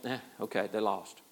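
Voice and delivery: low, soft, dismissive "eh"; resigned shrug. Retold or imitated. Pastor retelling his reaction to his team losing, resigned. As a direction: let it go quietly with a shrug. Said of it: "I went".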